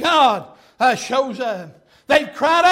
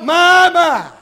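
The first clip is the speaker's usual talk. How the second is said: amazed my my; 3 semitones higher, 7 dB louder than usual. Retold or imitated. Preacher's own amazed reaction.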